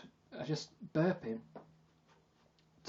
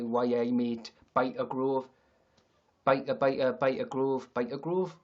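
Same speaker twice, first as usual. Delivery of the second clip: mock Geordie catchphrases; Newcastle accent; slower than usual. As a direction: put on a Geordie accent, repeating the phrase. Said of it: "I can do, you know, the Newcastle".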